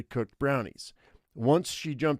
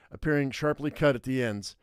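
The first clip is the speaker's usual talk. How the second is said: plain reading voice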